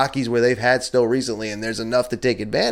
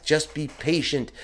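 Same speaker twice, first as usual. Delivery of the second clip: soft, slow self-calming; softly talking himself down; 3 semitones higher, 5 dB quieter than usual. Shown as a demonstration. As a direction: breathe out and ease it, gently. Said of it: "I take the deep breath".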